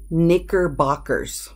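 knickerbockers slowly, in clear syllables; KER sound emphasized. Shown as a demonstration. Teacher showing the consonant sound, slow knickerbockers with clear KER. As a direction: stretch out knickerbockers to show KER. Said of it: "that ker sound is the one".

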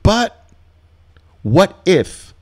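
mock worrier. Nervous trader doubting the setup, high whiny mock worry. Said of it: "that's the two words that tells me".

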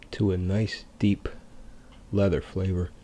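talking past held cigar; cigar at lips. Real, not acted. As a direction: lips partly blocked. Seen 0: Cigar held against lower lip while speaking, mouth still visible.

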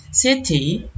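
city with the t tapped like a d, SID-ee; Australian city. Shown as a demonstration. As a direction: soften the t in city to a quick d. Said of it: "T kan ya".

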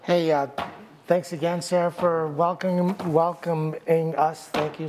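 muffled behind a face mask; through a face mask. Real, not acted. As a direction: talk through a mask over your mouth. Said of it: "hard time talking behind this mask".

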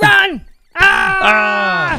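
loud, high mock panic. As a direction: scream in mock terror. Echoes panicked game warning.

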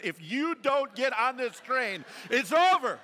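loud, slow mock warning, laughing at the end; mock doom warning. Pastor joking the alarm warns all sinners, loud and slow. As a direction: boom it like a fire-and-brimstone preacher.

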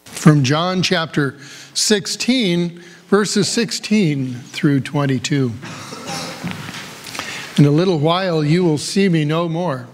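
measured, deliberate Bible reading, lightly voiced quotes; scripture reading. Pastor reading John to the Easter congregation, measured and clear. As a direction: read the Gospel aloud to the flock, steady and clear. Pastor reads Gospel passage.

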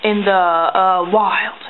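hushed mock-Australian nature narrator, softening at the end; bad Australian accent. Wildlife host watching it eat, hushed bad Australian accent. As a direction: drop to a hush in badly faked Australian. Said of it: "Your Australian accent is horrible".

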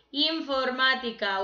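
Informática sounded out with MÁ marked; teacher's clear Informática, stressed on MÁ. Shown as a demonstration. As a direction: lean on the MÁ in Informática. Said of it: "esa es drújula".

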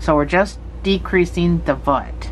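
talking around a stitch marker; words muffled by marker held in teeth; stitch marker in mouth. Real, not acted. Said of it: "I'm talking with a stitch marker in my mouth".

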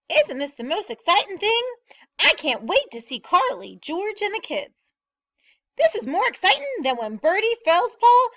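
high, lilting, thrilled onlooker voices; excited chatter. A narrator's reading. Townsfolk heading to see the meteor, chattering excitedly. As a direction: bubble over with anticipation, pitched high.

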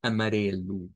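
"Amarelo" ending in a clear u, a-ma-RE-lu; final o as u. Shown as a demonstration. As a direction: show the u sound at the end. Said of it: "sonidos de U al final cuando hay una O". ("Amarelo" terminando en u)

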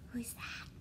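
gasped, hushed whisper; a breathless secret whisper. Acted.

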